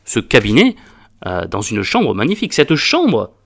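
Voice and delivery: high, loud outraged tirade, building clause by clause; loud, high indignation, some words slowed for weight; indignant pompous doctor. Acted. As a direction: play the offended doctor swelling with pride and fury. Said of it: "la réponse du docteur, je trouve qu'elle est géniale".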